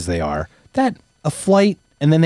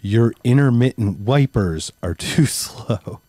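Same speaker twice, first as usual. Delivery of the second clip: dad's complaint, slow and broken by a laugh; slower than usual. Retold or imitated. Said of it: "the first words out of my father's mouth is".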